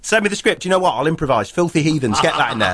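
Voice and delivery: eager to add his own slurs; hammed-up eager star; mock Mel. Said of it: "He's like".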